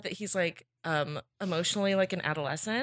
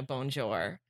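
put-on French accent; 6 semitones lower, 8 dB quieter than usual. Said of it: "pretending to speak French".

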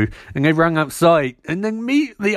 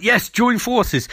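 slow hammy yes; 7 semitones higher, slower than usual. Retold or imitated. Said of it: "And Wes is like".

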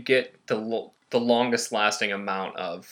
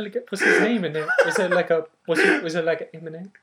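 much higher, laughing cutesy coo; high cooing candy voice; 7 semitones higher than usual. Pretend. Acting out finding candy in popcorn with a high laughing coo. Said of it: "be like".

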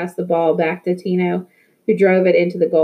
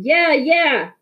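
higher, eager group yell; yelling back; 8 semitones higher than usual. A narrator's reading. The players answer Victor's call, eager yell. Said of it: "we all started yelling".

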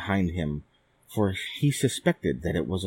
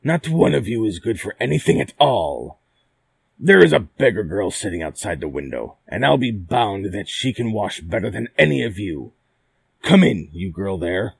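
louder exasperated prince; crying out; 6 dB louder than usual. Acted. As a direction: call out in exasperation. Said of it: "he cried".

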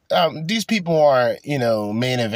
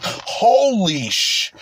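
slow, drawn-out mock exclamation; imitating the guy; 8 semitones higher, much slower than usual. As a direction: quote him with a slow stunned drawl. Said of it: "the guy who's like".

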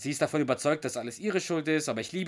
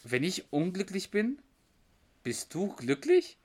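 mock shocked; 6 semitones higher, slower than usual. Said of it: "sagt halt der Doug so total schockiert".

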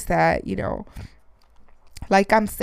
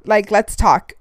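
eager call out; 6 dB louder than usual. Retold or imitated. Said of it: "I'm like".

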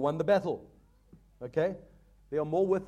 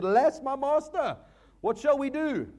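higher, louder frightened cry; a touch of alarm for the servant's cry; servant's panic; 9 semitones higher, 5 dB louder than usual. Acted. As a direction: plead like a servant who sees the army. Panicked servant in Bible story.

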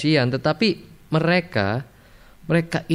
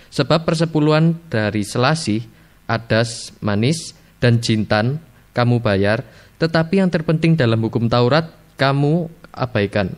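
scripture reading. Shown as a demonstration. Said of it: "Matius dua puluh tiga ayat dua puluh tiga".

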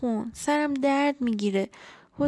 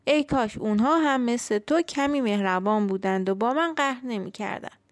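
put-on lonely old tree; 2 semitones higher than usual. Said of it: "خیلی دلتنگ شده بود".

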